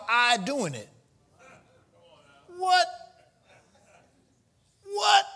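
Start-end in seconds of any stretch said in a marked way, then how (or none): 2.6-5.2 call-and-response. Real, not acted.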